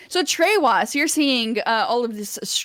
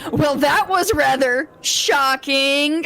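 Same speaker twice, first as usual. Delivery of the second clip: lightly voiced arena announcer, raised pitch; booming announcer; 4 semitones higher, 4 dB louder, slower than usual. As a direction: announce the pun over a loudspeaker, stretching the punchline. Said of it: "voice booming through the loudspeaker".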